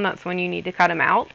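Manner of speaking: words pushed out through a burp; talking while burping. Real, not acted. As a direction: burp mid-sentence, a little rushed. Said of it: "Oh, excuse me".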